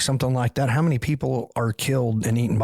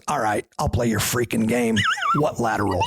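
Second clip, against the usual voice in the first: imitating the sergeant. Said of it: "And he goes".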